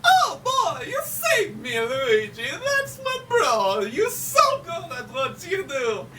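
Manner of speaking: very high, gushing cartoon voice; hammed-up squealing joy at being rescued; Mario. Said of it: "Mario's just like".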